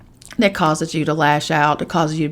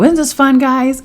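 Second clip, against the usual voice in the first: imitating ex-husband; 9 semitones higher, 6 dB louder than usual. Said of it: "he would look at me and little Kevin go".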